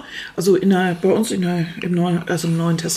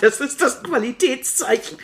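laughing; 4 semitones higher than usual. Real, not acted. Laughing while she describes the show.

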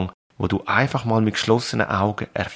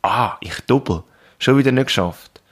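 self-critical inner voice; 3 semitones higher than usual. Retold or imitated. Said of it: "negative Sätze mit auf den Weg".

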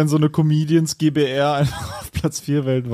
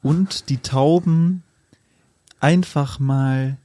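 poem recital. Acted. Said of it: "das Abschlussgedicht, äh, vortragen".

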